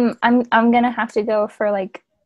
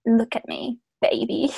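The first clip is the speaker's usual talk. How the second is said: mock purr; 6 dB quieter than usual. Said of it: "He purrs".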